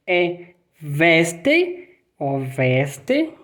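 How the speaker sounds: veste said with V sound for W; scene: teacher models W sounding like V; German Weste. Shown as a demonstration. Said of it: "O V".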